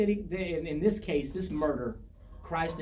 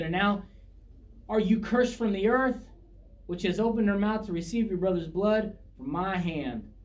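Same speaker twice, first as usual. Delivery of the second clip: raised, declaimed Bible verse; scripture reading; 3 semitones higher than usual. A narrator's reading. Preacher reads the Lord's curse on Cain, declaimed scripture reading. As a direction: pronounce the curse as read from scripture.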